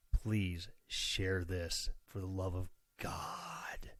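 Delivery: slow, soft whispered plea, half joking; pleading whisper. Pretend. Host begging listeners to share the podcast, in a mock-desperate whisper. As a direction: beg them in a whisper to please share.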